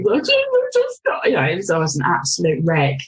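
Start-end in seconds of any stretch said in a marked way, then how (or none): 0.0-1.2 much higher, slow, strained quote; literally how it sounded. Retold or imitated. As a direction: stretch it out high and pleading. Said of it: "but literally".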